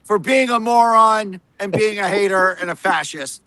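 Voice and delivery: condescending, superior mock reporter voice; smug reporter mockery. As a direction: parody a smug know-it-all talking down. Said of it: "their tone of voice is like".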